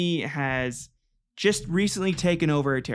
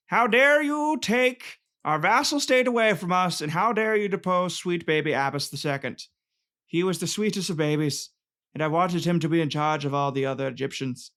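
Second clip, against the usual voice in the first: high, louder outburst easing down; mock indignation; 4 semitones higher, 3 dB louder than usual. Podcaster playing the outraged Ottomans, mock indignant. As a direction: act out an affronted, hammed-up protest. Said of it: "'Cause they were like".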